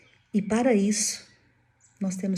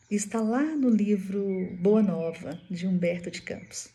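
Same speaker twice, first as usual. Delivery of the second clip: ordinary talk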